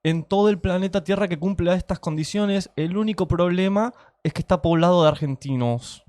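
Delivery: imitating a cheto upper-class Argentine accent; posh argentine spanish. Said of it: "Me encanta la imitación del tono de Cheto".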